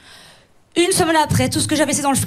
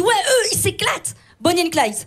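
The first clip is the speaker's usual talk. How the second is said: higher, lively quoted approval; mock admiration; 4 semitones higher than usual. Comedian quotes people hearing couple names, mock admiring. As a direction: imitate someone impressed by a fun couple. Mimics reaction to party couples.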